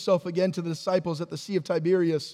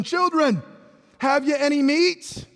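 calling out; 5 semitones higher than usual. Acted. Jesus calling to fishermen from shore.

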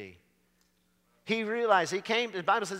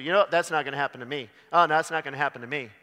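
dismissive mock voice; 6 dB louder, much faster than usual.

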